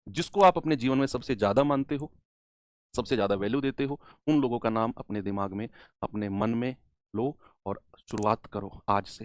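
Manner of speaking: hushed, low and reverent; quiet reverence. Real, not acted. Solemn invocation before starting the class.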